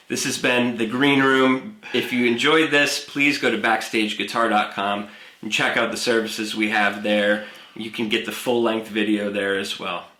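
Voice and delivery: lightly announced outro sign-off; show outro read. Acted. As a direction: wrap up the show like a host.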